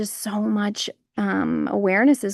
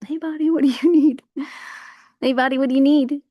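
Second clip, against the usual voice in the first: a light, higher sing-song ask; sweet asking voice; 5 semitones higher, 4 dB louder than usual. Retold or imitated. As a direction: coax your own body gently. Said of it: "I'm just always like".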